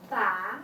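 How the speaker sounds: "Ba" starting mid-low and sliding up; rising second tone. Shown as a demonstration. Teacher models second tone for students, rising. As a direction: lift "Ba" from middle pitch upward. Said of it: "you need to go move up a little bit".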